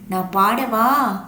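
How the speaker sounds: slow, drawn-out sing-song question; coconut asking. Acted. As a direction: offer to sing, stretching each word. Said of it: "அப்படின்னு கேக்குது". (மெதுவாக இழுத்து பாடவா என்று கேட்கும் தேங்காய்)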